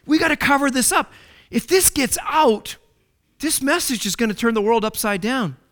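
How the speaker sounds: high, urgent conspirator's voice; hurried panicked plotting; furious. Acted. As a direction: priests scrambling to hush it up, urgent. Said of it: "And they were furious".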